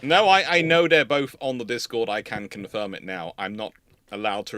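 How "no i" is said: ordinary talk, nothing marked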